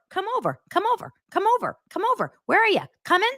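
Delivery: high, singsong mocking friend calls; sarcastic bar-friend impression; mock party chatter. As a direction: ham up the cheery come over calls.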